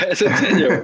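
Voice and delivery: high laughing repeat; laughing echo. Real, not acted. Laughing as he echoes her correction.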